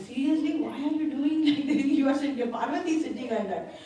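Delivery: laughing disbelief. Acted. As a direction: laugh through the incredulous question. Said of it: "he's laughing".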